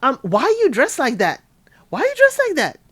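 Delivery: high-pitched startled imitation; exaggerated, high freak-out; mock freaked out. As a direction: imitate someone jolted awake in a panic. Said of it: "Joe is freaked out, woke up".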